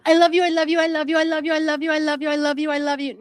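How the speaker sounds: mock the needy repetition in her voice; imitating Mackenzie. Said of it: "one thing that Mackenzie does do is".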